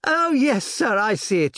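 put-on high, bright girl's answer; eager daughter obeying her father; young girl. A narrator's reading. Daughter answers her father, high and eager. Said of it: "she replied".

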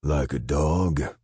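slow, drawn-out sneer; mocking taunt. Joe Martin mocking the cowering captain, slow. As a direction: savour the cruelty. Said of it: "Joe Martin laughed".

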